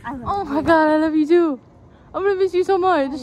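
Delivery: emotional goodbye. Real, not acted.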